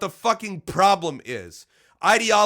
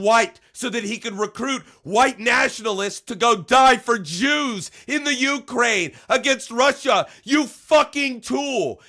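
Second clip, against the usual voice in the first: raised, heated accusation; real anger at Rob Rundo, raised pitch; angry rant; 5 semitones higher, 3 dB louder than usual. Real, not acted. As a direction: hurl the insult, pitch up.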